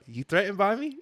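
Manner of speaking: taunting question breaking into laughter; mocking laugh. Rival drummer taunting the leader, mocking laugh. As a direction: laugh in his face.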